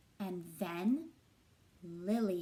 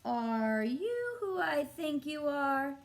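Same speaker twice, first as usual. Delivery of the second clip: awed question; 5 semitones higher, 3 dB louder, slower than usual. Acted. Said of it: "Chester asked the cat".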